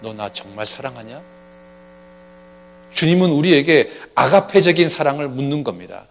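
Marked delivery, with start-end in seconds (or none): 0.0-1.2 soft, hushed question from the Lord; the Lord softly asking us; quiet asking. Acted. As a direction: ask gently, almost to yourself. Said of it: "주님이 우리에게 물을 겁니다".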